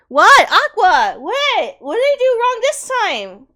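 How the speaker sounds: high, loud, tearful protest; crying while pleading to stop; teary outburst, voice up high. Real, not acted. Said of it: "Oh, I'm still crying".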